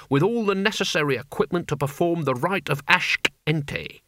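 testy, commanding wizard; crotchety boss dressing down his underlings; irascible old wizard Albert, giving orders. Acted. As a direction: order them about with impatient contempt.

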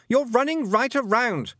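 put-on loud, high boy's call; boy shouting. A narrator's reading. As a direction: shout a warning from behind. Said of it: "Roland shouted".

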